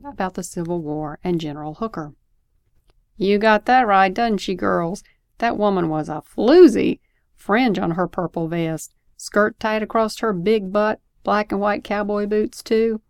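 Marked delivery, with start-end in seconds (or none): 3.2-13.0 louder, lightly voiced opinionated woman; a hint of a brash, judging woman; interrupting woman. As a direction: butt in emphatically with an opinion.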